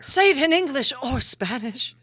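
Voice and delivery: high, loud diva voice; grand sultry diva; vamp voice. Pretend. Vamp character.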